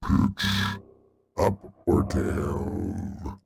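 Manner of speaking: voice changer. Shown as a demonstration.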